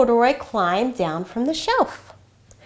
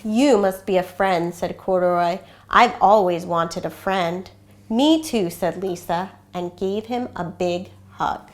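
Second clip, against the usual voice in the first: gentle read-aloud storytelling voice; story narration; 2 semitones lower than usual. A narrator's reading. Reads picture book aloud.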